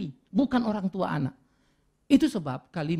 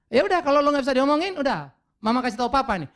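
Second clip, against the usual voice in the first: mock threatening mother; 6 semitones higher, 4 dB louder than usual. Wife threatening kids, retold.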